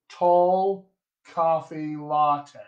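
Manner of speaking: TALL COFFEE LATTE slowly, rounded 'aw' in tall, 'ah' in coffee and latte; two-vowel General American. Shown as a demonstration. Accent coach showing their two vowels, slow General American. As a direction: draw out TALL, then COFFEE and LATTE both with open 'ah'. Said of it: "I only have two vowels here".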